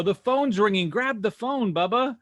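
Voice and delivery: lightly acted holler to a coworker; calling out to staff. Boss calls out to employee.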